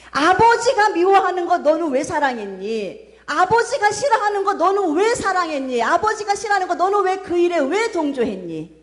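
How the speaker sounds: reproachful questioning. Acted. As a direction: demand answers like a grieved father. Voicing God's rebuking questions.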